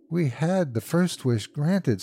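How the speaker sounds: high, slow, feverish insistence. A narrator's reading. Old woman persuading her husband to wish, feverish. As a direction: argue it with fevered hope. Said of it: "said the old woman feverishly".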